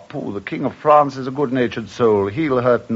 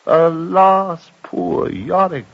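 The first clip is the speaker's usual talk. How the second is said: a slow, lamenting cry, drawn out on poor Yorick; mournful cry; 4 semitones higher, much slower than usual. Acted. Yorick alone in his chamber, crying out in slow lament. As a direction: sigh it out over his own lonely state. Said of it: "cried I".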